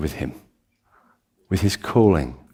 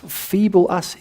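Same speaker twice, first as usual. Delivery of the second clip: mock disbelief; 10 semitones higher, slower than usual. Mock incredulous congregation voice.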